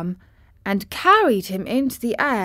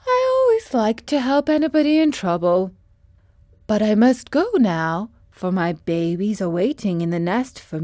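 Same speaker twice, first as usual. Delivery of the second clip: motherly bird saying goodbye; kind stork; 2 semitones higher, 4 dB louder than usual. Acted. Stork says goodbye to the travellers, lightly voiced.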